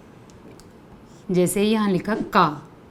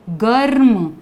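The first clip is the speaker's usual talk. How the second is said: ordinary talk, nothing marked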